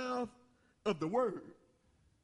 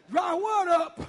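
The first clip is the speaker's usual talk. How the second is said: laughing disbelief; 7 semitones higher, 8 dB louder, slower than usual. Real, not acted.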